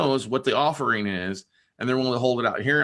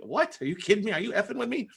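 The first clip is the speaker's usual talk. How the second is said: shocked disbelief; 10 semitones higher than usual. Retold or imitated. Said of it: "but she was like".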